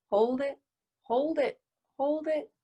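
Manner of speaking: high voice on a held breath; holding breath. Shown as a demonstration. Talking on an indrawn held breath.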